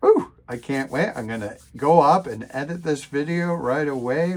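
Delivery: real, eager excitement with a loud opening; excited. Real, not acted. Tinkerer eager to edit his repair video, excited. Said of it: "you tell I'm excited".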